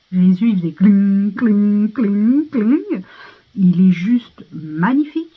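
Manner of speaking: sparkle noise rising with delight; swooning over him, loud and rising; excited gushing. Real, not acted. Gushing over the actor's looks.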